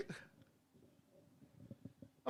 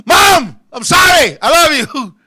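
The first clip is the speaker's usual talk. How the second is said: mock apology; 5 dB louder, slower than usual. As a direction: call out a hammed-up apology to mom. Pleading with mother watching show.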